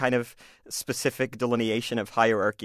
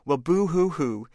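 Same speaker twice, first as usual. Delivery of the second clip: mock crying; 3 semitones higher, 3 dB louder, slower than usual. Bully mocking teacher's sadness.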